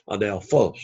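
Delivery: adelphos, accent falling on final PHOS; stress on last syllable. Shown as a demonstration. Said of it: "the accent is on the last syllable".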